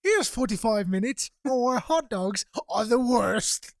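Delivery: slow, deliberate host cadence; John Oliver's slow, weary build; John Oliver impression. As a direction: say it like the deadpan host teeing up a rant. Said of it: "that's how he fucking sounds".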